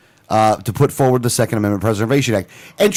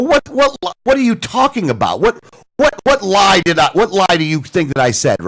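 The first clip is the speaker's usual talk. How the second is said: a higher, mock-indignant "what, what"; half-acted disbelief, stumbling over the words; incredulous retort; 5 semitones higher than usual. Retold indignant reply on phone.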